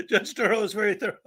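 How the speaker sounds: slurred, tongue held between fingers; holding tongue with fingers. Shown as a demonstration. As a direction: say it while pinching your tongue. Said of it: "tried holding your tongue just now".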